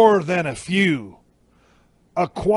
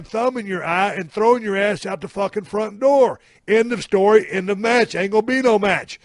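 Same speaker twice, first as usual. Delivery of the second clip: indignant rant; 3 semitones higher than usual. Acted. Laying down the law to horsefly.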